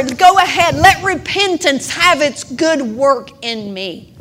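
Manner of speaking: loud, pleading preacher's cry; fervent preaching prayer. Acted. Pastor praying before her congregation, loud fervent plea. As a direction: pray it out loud to the refiner, pleading.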